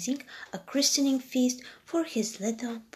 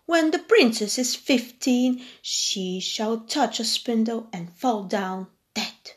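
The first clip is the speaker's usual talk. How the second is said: angry curse. Acted. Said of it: "burst in angrily and said".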